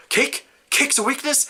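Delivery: mock disbelief at the word cake; incredulous surprise. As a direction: ask it like you can't believe the card. Character reacts to cake weakness.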